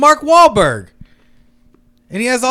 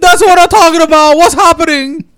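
bad Hispanic accent; 5 semitones higher, 5 dB louder than usual. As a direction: wail it in a terrible Hispanic accent. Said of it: "the worst Hispanic accent".

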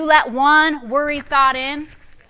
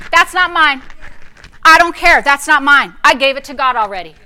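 firm rebuke; 5 dB louder than usual. Shown as a demonstration. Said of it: "But you gotta say".

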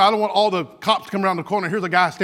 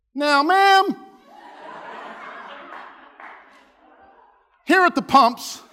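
mock-official announcement; 7 semitones higher, much slower than usual. Officer to lady at the pumps, mock-official announcement. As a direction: proclaim it like an official notice.

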